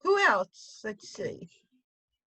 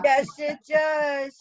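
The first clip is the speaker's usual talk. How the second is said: emphatic shout; much slower than usual. Real, not acted. Answering emphatically.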